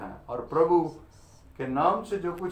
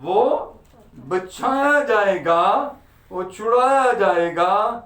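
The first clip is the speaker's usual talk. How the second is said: preaching; 4 semitones higher, 5 dB louder than usual. Acted. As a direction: preach the verse out to the congregation, stretching key words. Preaches the verse to congregation. (ज़ोरदार उपदेश, शब्द खींचकर)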